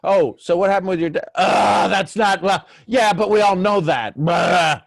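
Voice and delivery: loud, high-pitched hammed-up complaining; mock griping. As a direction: moan and blurt it out in exaggerated mockery. Acting out a griping exchange.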